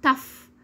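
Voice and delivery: "tough" ending in a clear f; final GH as F. Shown as a demonstration. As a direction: say "tough" as "taf". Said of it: "نسمع الكلمات ونردد".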